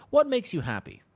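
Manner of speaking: asking a stranger with mock enthusiasm; eager question. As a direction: pop the question brightly.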